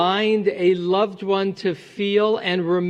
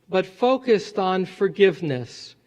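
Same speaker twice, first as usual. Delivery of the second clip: ordinary delivery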